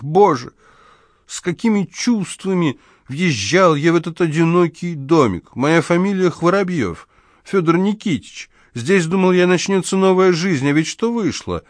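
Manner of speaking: put-on high, complaining old man's voice; plaintive lament. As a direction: mourn a ruined new life. Old man laments lonely life. (жалобно)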